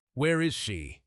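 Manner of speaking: low growl. Acted. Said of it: "Beckett's voice was a low, terrifying growl".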